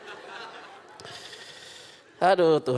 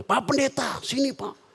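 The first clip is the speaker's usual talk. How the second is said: higher sweet call of a rich lady; socialite calling over; 7 semitones higher than usual. Retold or imitated. Rich lady calling the pastor over, high and sweet. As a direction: beckon the pastor like a glamorous socialite.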